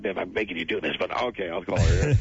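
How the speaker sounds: lightly voiced, stammering apology; Danny DeVito impression. Retelling Danny asking him to call his wife, stammering. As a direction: stumble over it like a nervous star. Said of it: "was that your Danny?".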